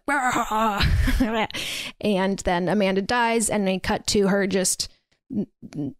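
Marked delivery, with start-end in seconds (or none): 0.1-2.0 demon growl. Retold or imitated. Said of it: "demon-y growl moans like".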